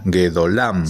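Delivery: Gedolam with the stress on LAM; ge-do-LAM, accent at the end; stress on final syllable. Shown as a demonstration. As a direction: say Gedolam, landing on the last syllable. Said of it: "Ahora el acento se ha movido".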